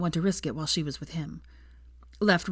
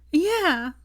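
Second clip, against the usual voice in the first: amused; 11 semitones higher, 4 dB louder than usual. A narrator's reading. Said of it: "she said amusedly".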